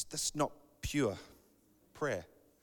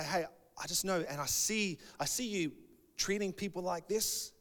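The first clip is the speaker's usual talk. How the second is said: softer, higher, careful voice; gentle confrontation; 4 semitones higher, 6 dB quieter than usual. Acted. Taking someone aside about their behavior, gently tactful. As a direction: raise it tactfully, softly and slightly high.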